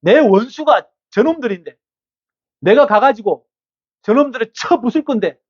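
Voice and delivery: David protesting. Acted. 다윗이 아기스 왕에게 억울하게 항변하는 높은 목소리. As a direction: insist you want to fight, pitch up. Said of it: "라고 다윗이 항변해요".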